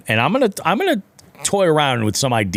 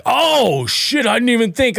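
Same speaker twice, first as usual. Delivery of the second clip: high, goofy apologetic dude voice; a clueless guy caught out; sheepish dude; 11 semitones higher than usual. Retold or imitated. Imitating the boater realizing his mistake, high goofy sheepish. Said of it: "he was like".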